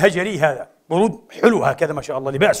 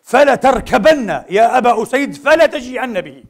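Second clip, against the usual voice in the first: louder and higher, slow commanding order; slow, raised command from the Prophet; prophet's firm order; 4 semitones higher, 3 dB louder than usual. Acted. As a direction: give the order firmly, right away. بكلمة واحدة من فوره.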